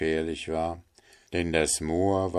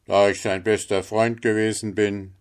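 lightly voiced miller, a touch louder; self-important miller; 3 semitones higher, 5 dB louder than usual. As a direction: state your claim with mild self-importance. Figure of the miller. (leicht gespielter, selbstgefälliger Müller)

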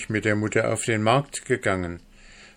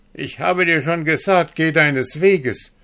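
angry; 8 semitones higher, 6 dB louder than usual. A narrator's reading. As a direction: bite each word off in anger. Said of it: "entgegnete Frau Hanne zürnend".

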